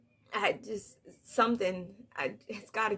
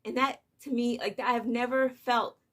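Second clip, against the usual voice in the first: ordinary delivery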